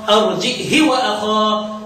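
a slowed recited phrase; slow recitation. Shown as a demonstration. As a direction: read it out slowly as recitation. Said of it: "نقرأ انفرد بها ابن ذكوان".

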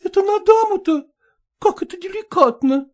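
high, quick, coquettish dog chatter; chattering lady dog. Acted. Ragulya excusing herself to Polkan, high quick chatter. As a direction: prattle on, pleased with yourself.

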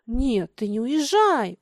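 slow, mild pleading. Acted. Лёня begs Миша not to leave home, pleading. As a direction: beg him gently to stay. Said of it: "умолял Лёня".

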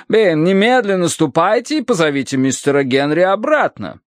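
high-pitched urgent order; imperious matron. A narrator's reading. Mrs. Mering sends her butler after Henry, imperious matron.

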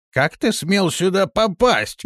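slow, high, stressing ты; indignant. Acted. Old shaman challenges the intruder, slow and indignant. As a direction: demand it slowly with outrage.

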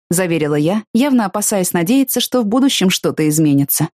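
plain reading voice

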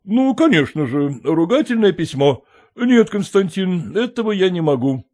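a surprised landowner asking back; puzzled master. Acted.

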